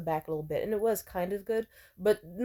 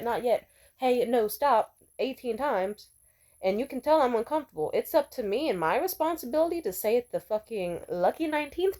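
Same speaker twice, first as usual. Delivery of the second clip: heated retort; 3 semitones higher than usual. Retold or imitated. Telling the guy who blamed her off, heated. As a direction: lay into him, incredulous and fed up.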